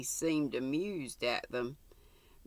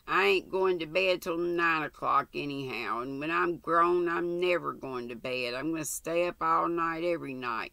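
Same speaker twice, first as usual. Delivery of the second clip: defiant. Acted. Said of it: "hurl a final defiance".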